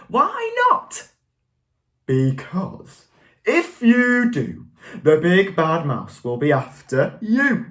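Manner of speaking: lively, expressive story voice; expressive picture-book reading; reading to children. A narrator's reading. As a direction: read it aloud to a class.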